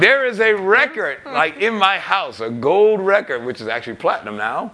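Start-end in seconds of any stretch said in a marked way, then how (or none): 0.0-3.4 excited brag. Real, not acted. Excited bragging.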